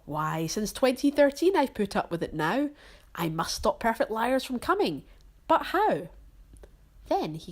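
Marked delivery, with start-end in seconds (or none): 0.1-6.1 grumbling Grinch working himself up; scheming villain rising to a shout. Acted. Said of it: "the more the Grinch thought".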